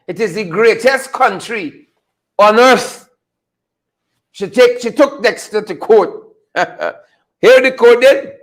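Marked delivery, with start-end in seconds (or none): 0.1-3.1 a light Trinidadian accent on greatest country on earth; Trini accent. Shown as a demonstration. Host boasting about Ghana, said in a light Trini accent. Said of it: "Let me say with Trini accent".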